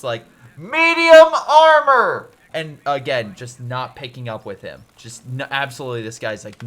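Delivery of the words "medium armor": long, higher, loud call from afar; distant shout. Retold or imitated. Soldier shouting a warning from afar, loud. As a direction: holler the warning across the field. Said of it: "a guy shouting at the distance".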